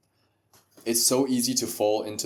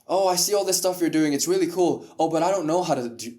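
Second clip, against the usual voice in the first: higher-pitched mock admirer making excuses; hesitant admirer; 5 semitones higher than usual. Podcaster playing someone who came to Jared, mock admiring. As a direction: play an impressed but helpless newcomer. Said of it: "someone came to you".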